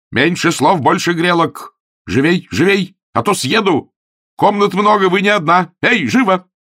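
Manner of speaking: high, loud shouted orders; angry commands. Acted. Augustine shouts orders at the landlady, high and loud. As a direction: drive her on with yells.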